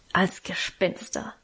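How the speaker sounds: slow, conspiratorial whisper; soft, spooky punchline; hushed reveal. Acted. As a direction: whisper the secret plan, drawn out. Reveals the secret ghost plan.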